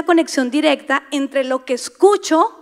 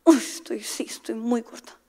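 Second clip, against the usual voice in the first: softer deflated mutter fading away; mock self-pity; 3 semitones lower, 8 dB quieter than usual. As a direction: give in to the lie, sinking quietly. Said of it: "tú dices".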